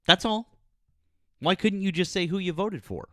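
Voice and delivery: high-pitched, exasperated protest. Real, not acted. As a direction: raise the pitch in baffled frustration. Exasperated after caller hung up.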